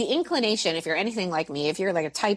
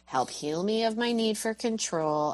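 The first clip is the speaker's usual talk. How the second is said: soft prayer; 4 dB quieter than usual. Retold or imitated. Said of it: "go to this place of like".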